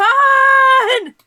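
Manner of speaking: very loud, very high, drawn-out yell. Shouting a line from The Wrath of Khan: imitated shout of Khan. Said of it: "I can't do it any louder than that".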